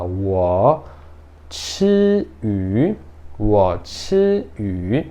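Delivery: 我吃鱼 said slowly, each tone clear; slow Chinese demo. Shown as a demonstration. Teacher modeling a Chinese sentence slowly for beginners. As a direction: spell out 我吃鱼 slowly for learners. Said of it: "você fala".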